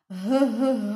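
"H, h" breathed out as a bare sound; isolated sound. Shown as a demonstration. Teacher isolates the first sound h for the kids. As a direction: say just the sound h twice. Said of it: "Jaká je první hláska?".

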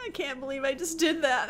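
whispered disbelief. Real, not acted. Disbelief after own blunder.

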